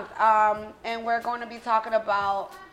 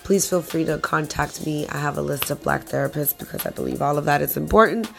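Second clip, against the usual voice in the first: lower, hoarse voice from a cold; 6 semitones lower than usual. Real, not acted. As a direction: sound like you're sick with a cold. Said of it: "Please excuse my voice, I do have a cold".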